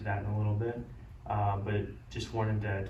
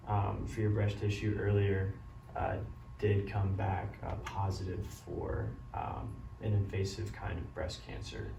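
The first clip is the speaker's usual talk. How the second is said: doctor bad news. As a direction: break the news gently and kindly. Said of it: "a beneficial way of delivering bad news".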